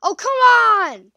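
slow, high exasperated whisper; frustrated whisper. Real, not acted. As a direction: breathe it out in frustration. Frustrated at game.

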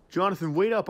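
loud call to stop a leaving friend; calling after him. Acted. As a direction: shout after him as he walks off. Calling after departing employee.

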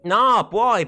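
loud, high burst of contradiction; exasperated retort. Real, not acted. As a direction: cut in sharply and insist. Contraddice il nonno che dice non posso. (replica esasperata ad alta voce)

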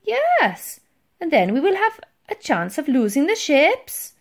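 high, loud explanation; eager underling. A narrator's reading. Titch explains the smoke screen, eager. Titch presses his idea.

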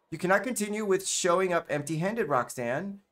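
put-on French-accented reprimand; light French accent. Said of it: "a French accent".

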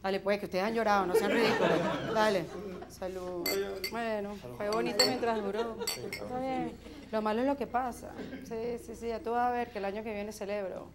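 low, mildly mournful drinking talk; mock tearful consolation. Drinker mourns what could have been, low mock-sad voice. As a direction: console yourself over a lost chance. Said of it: "También nos juntamos para llorar".

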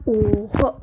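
sudden startled exclamation; loud gasp of surprise; shocked. Real, not acted. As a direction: blurt it out in disbelief. Shocked at box result.

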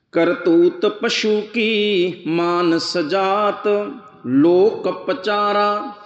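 slow, chanted reading of the verse; slow devotional recitation of gurbani; scripture recitation. Acted. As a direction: draw out each word like a hymn line.

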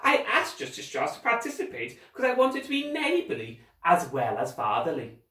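high, sugary theatrical villain; put-on fatherly politeness; falsely friendly villain. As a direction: feign neighbourly goodwill.

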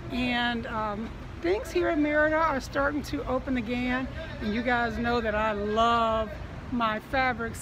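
muffled through a mask; through a face mask. Real, not acted. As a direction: talk through a cloth mask. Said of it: "Hopefully you can hear me through the mask".

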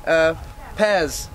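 halting, improvised Cockney accent; hesitant mock Cockney; attempted Cockney accent. Shown as a demonstration. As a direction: fumble through Cockney patter, groping for words. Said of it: "do a better Cockney accent".

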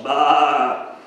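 lightly voiced lamb bleating; playful lamb baa for the children. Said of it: "said the little lamb".

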